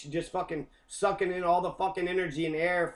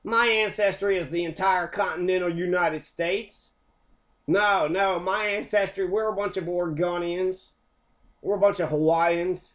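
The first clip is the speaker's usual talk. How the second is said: mock hillbilly Kentuckian; 3 semitones higher, 4 dB louder than usual. Mocking Kentuckians who claim American ancestry, hammed-up redneck. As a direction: ham up an offended country boy.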